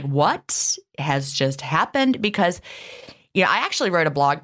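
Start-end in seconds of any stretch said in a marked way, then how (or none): 0.0-2.2 slow, bewildered mock gasp of a question; stunned disbelief. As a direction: act out a confused listener, drawn out. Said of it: "be like".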